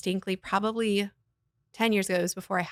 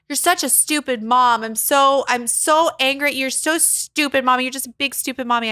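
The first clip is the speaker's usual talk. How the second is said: put-on angry child; 4 semitones higher, 5 dB louder than usual. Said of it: "my kids will say, things like".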